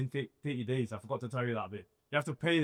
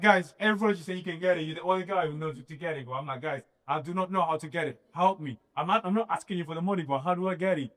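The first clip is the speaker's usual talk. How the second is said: exasperated plea; 5 semitones higher, 4 dB louder than usual. Retold or imitated. Begging friends for help.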